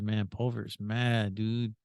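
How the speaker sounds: soft, slow, dead-serious delivery; straight-faced. Retold or imitated. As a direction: keep a straight face, understated. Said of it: "saying this with a straight face".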